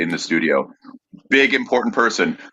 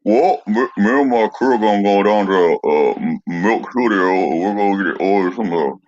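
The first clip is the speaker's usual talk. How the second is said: put-on Appalachian accent. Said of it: "The Appalachian".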